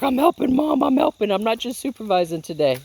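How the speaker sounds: high, loud voice for a pet; eager animal helper. Retold or imitated. Owner voices pet insisting to Mom she helps, high eager voice. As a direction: play an eager little helper, high-pitched. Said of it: "She's like".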